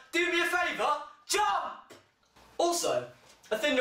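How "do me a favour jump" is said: mock shout. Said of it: "I'm like".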